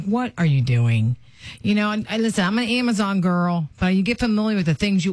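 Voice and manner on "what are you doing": scolding husband. Retold or imitated. Scolding husband over Temu parcels.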